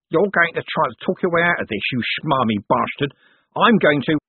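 angry, threatening crook; snarling thug. Acted. Cribbins snarls.

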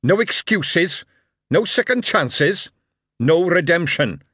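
loud, high, slow commands. A narrator's reading. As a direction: hammer each demand home. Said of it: "the voice of the king was even louder".

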